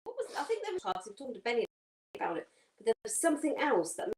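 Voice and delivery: suppressing a sneeze while talking; holding back a sneeze. Real, not acted. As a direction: talk while fighting off a sneeze. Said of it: "I'm trying not to sneeze".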